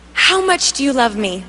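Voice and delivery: small, low, hesitant asking; timid question. Retold or imitated. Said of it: "I'm kinda scared".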